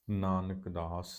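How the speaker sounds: ਨਾਨਕ ਦਾਸ slow, then a rest; pause after phrase. Shown as a demonstration. Teacher showing where to rest, ਨਾਨਕ ਦਾਸ then pause. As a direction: stretch ਦਾਸ and stop after it. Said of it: "ਇੱਥੇ ਵਿਸ਼ਰਾਮ".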